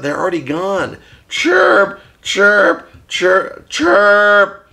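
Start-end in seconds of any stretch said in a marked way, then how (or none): 1.3-4.7 parakeet chatter. Pretend. Puppet bird says goodbye.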